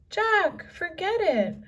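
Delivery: high, loud urgent call; urgent plea. A narrator's reading. Annie begs Jack to abandon the book, high loud plea. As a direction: leave it, come now.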